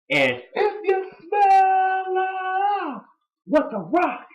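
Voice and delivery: hammed-up Rock catchphrase, swooping high; imitating a wrestler's promo; mock Rock impression. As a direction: ham up the cooking line. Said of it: "And The Rock's like".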